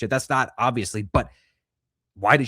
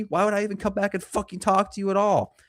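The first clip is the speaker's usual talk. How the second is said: much higher, indignant put-on voice; mock defensive husband; 10 semitones higher than usual. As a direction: whine back like the offended husband. Mocking husband defending himself.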